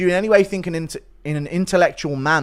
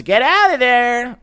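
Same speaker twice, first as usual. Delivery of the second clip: high, loud mock yell; Rogan yelling; 9 semitones higher, 6 dB louder, slower than usual. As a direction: imitate a commentator's alarmed yell. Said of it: "Impression of Rogan telling, yelling at Connor".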